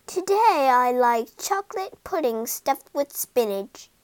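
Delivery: lightly voiced Missus Rose. Pregnant wife decides on chocolate pudding with spinach, lightly musing. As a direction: dream up a craving, voice slightly lifted.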